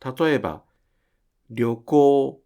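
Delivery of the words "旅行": 旅行 said louder, with りょ as one beat; a loud, clear example of 旅行; 旅行 counted in three beats; model word. Shown as a demonstration. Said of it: "りょは拗音で".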